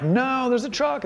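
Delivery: high, slow cry of alarm; alarmed parent. Retold or imitated. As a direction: warn the kid off the street, high and drawn out. Parent warning child in street.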